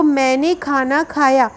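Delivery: मैंने given extra weight at the start; stress on मैंने. Shown as a demonstration. Teacher giving a sentence-stress example, emphasis on मैंने. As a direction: put the emphasis on मैंने, then let the rest follow. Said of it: "यहाँ पे मैंने क-, वाक्य बलाघात".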